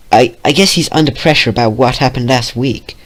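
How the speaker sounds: Red's voice. Shown as a demonstration. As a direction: redo it in Red's voice. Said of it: "Oh, crap".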